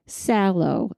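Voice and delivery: "Salo" with a flat East Coast first vowel, as in "Sal"; East Coast accent. Shown as a demonstration. Host shows how she always says guest's name, East Coast accent. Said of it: "that is like the typical East Coast ... horrible accent".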